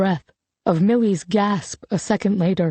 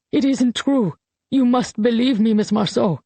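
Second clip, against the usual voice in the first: higher, urgent pleading; desperate plea; 3 semitones higher than usual. Acted. Guillaume pleads with Colette to believe him, urgently. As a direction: beg her to believe you. Old man begs to be believed.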